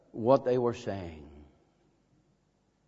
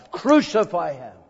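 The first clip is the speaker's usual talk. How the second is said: preacher voicing the crowd's louder demand; crowd shout; 3 semitones higher, 7 dB louder than usual. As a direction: push it out like the baying crowd. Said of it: "For they cried".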